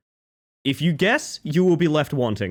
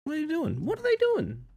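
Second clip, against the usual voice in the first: high puzzled voice; 6 dB quieter than usual. Acted.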